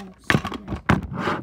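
slow breathy gasp of fright; frightened gasp. Real, not acted. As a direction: gasp it out in alarm. Frightened by the spider.

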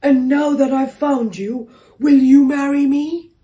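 hopeful proposal. A narrator's reading. Door proposes to the kangaroo.

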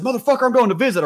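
high-pitched indignant protest; retold trash talk. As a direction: act out cursing at the guy, voice shooting up. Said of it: "I'm still talking shit".

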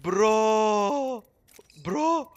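loud, high shocked yell; shocked shout. Real, not acted. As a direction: yell at your friend in disbelief. Shock after teammate dies.

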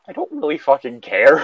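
laughing answer. Retold or imitated. Telling friend his honest answer, laughing. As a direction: laugh off the question.

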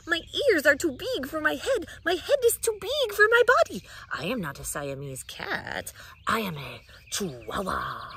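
hint of a Spanish accent, high then whispered. Kitten posing at the mirror in a light Spanish accent. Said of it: "using his very best Spanish accent".

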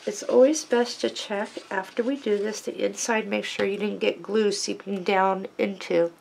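talking around a pen in the mouth. Real, not acted. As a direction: speak with a pen held in your mouth. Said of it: "sorry, I have a pen in my mouth".

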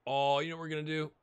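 eager, scheming lift; sudden excitement. Real, not acted. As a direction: voice jumps up with a fresh idea. Sudden idea, excited repeat.

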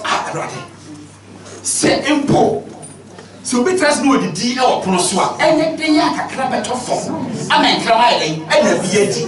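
high, pleading plea to the Lord; pleading woman. Acted. Preacher voices the woman begging Jesus, high and pleading. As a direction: beg humbly as the woman at his feet. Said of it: "ɔbaa no yɛ yɛ na ɔsɛ".

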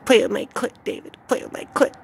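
high, eerie echo of her voice; woman's voice. Retold or imitated. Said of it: "it just echoes through my mind".

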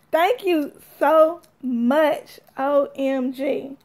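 slow laughing thanks. Real, not acted. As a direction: laugh it out slowly.

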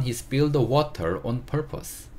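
아주 느린 시범 낭독; 문장 전체를 단어마다 끊어 천천히. Shown as a demonstration. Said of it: "다시 한번 읽어보면". (따라 읽기용으로 아주 느리게 읽는 선생님)

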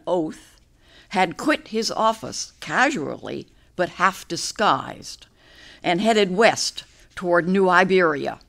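measured, deliberate verse reading with pauses between phrases; poetry reading. A narrator's reading. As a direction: read a narrative poem aloud, line by line. Reads own poem aloud.

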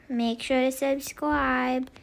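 put-on slow, babyish little-kid voice. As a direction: talk like a tiny baby. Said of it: "don't talk in that baby voice".

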